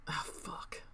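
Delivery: soft, breathy swear under the breath; hushed frustrated whisper; whispered curse. Real, not acted. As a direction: curse quietly at your mistake. Bad entry, moving stop loss.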